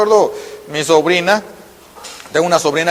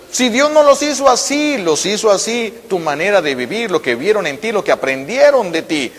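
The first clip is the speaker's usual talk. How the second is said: usual speaking voice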